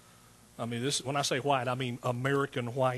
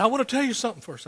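possessed man's voice; 8 semitones higher, 5 dB louder, faster than usual. Retold or imitated. Possessed man speaks to preacher.

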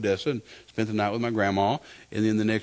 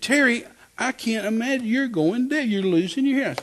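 high-pitched imitation of a worried wife; concerned exclamation; 11 semitones higher than usual. Wife to husband going deaf, concerned exclamation. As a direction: retell her dismay in a raised pitch. Alarmed wife voiced in story.

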